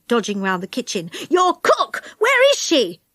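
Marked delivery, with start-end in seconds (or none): 1.3-3.0 higher, mild shout. Acted. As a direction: shout while dodging round the kitchen. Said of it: "he shouted".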